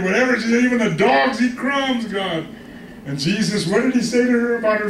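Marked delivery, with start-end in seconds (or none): 0.6-2.5 higher-pitched imitated plea; pleading. Preacher voices a desperate mother begging God, pleading. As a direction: act out begging for the smallest scrap. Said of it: "she pleaded".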